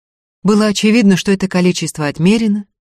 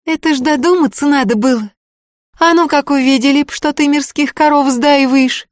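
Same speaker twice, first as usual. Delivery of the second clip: put-on higher, lively frightened girl's voice, quick at the end; girl Tanka, alarmed; 9 semitones higher, 4 dB louder than usual. A narrator's reading. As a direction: gasp at your friend's daring.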